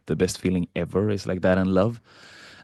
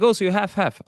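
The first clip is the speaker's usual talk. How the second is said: mock surprised stranger; 12 semitones higher, 4 dB louder, faster than usual. Retelling stranger's assumption.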